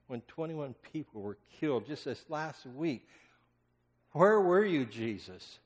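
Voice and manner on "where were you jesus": loud, high plea; anguished outcry; pained cry. Acted. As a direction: call out to Jesus in anguish. Repeated lament, rising.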